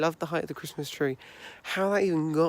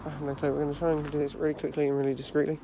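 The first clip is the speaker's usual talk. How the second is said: quiet; 5 dB quieter, faster than usual. Real, not acted. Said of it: "keep my voice down".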